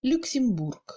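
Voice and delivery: "Luxembourg" with clear OU, brief middle E; brief reduced E. Shown as a demonstration. Teacher showing reduction, "Luxembourg" with brief E. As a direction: hold OU in "Luxembourg", shrink the middle vowel. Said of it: "comme un E muet français".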